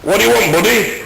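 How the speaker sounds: a comic doing a cowboy American; American accent. Acted. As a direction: put on a broad American voice. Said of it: "I'll speak a bit of American for you now".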